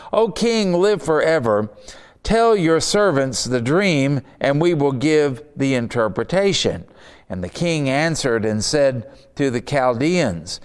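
measured, declaiming Bible reading; scripture reading. Acted. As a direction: read the king's threat with weight. Reads scripture aloud.

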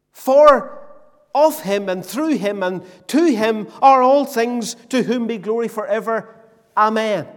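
emphatic preacher reciting a doxology; declaimed scripture. Acted. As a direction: hit the first word hard, then drive through to the amen. Repeats the verse emphatically.

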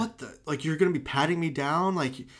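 high-pitched indignant protest; hammed-up disbelief at being pushed around; mock outcry. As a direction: imitate an outraged member of the public, voice climbing.

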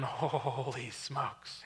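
long drawn-out, hushed "holy"; stunned exclamation. Retold or imitated. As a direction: stretch it out in awed disbelief. Acted astonished thought at the bear.

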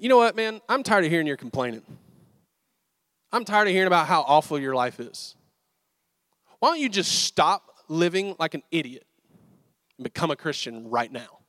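loud, fed-up telling-off; exasperated outburst. Retold or imitated. Preacher scolding a complaining friend over ribs, exasperated and loud. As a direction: lay into him, done with his complaining.

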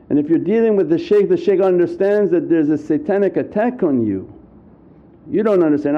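ordinary talk, nothing marked

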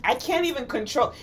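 normal talking voice

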